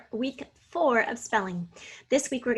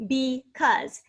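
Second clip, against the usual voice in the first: because split as "be", pause, "cause"; teacher dividing because after "be"; syllable by syllable. Shown as a demonstration. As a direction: sound out because in two separate beats. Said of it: "B E is the first syllable".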